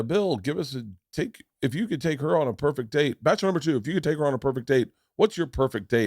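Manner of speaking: lightly voiced game-show host, lifted pitch; dating show host. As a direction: put the question to a bachelor like a TV host. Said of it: "dating game came on".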